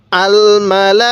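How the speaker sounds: আল মালা recited slowly with the syllables stretched; drawn-out recitation. Shown as a demonstration. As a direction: chant আল মালা like a tajweed demo. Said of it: "এরকমভাবে পড়ব".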